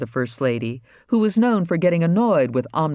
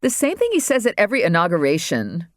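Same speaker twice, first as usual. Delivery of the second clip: disgust; 4 semitones higher than usual. Acted. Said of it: "Regina replied in disgust".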